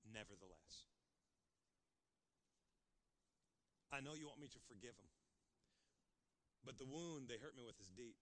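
very soft, low prayer; almost whisper your surrender; a hurt believer quietly praying to God about forgiving, soft and low; hushed confession. Acted.

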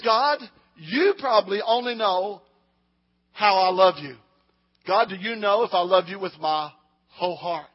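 loud, pleading cry to God; preacher voicing a believer's loud, pleading prayer to God; impassioned prayer. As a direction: call out to God with your whole heart.

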